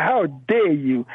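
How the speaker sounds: slow, drawn-out how dare you; each word weighed, retelling her outrage; indignant rebuke. Retold or imitated. Caller retells Sister Lola scolding Jeffries, slow indignant rebuke. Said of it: "she's a passionate sister".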